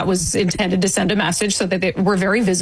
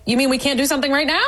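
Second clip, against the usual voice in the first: higher, quick disbelieving question; incredulous protest; 5 semitones higher, much faster than usual. Retold or imitated. Fan retelling her challenge to security, incredulous. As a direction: push back in retold disbelief.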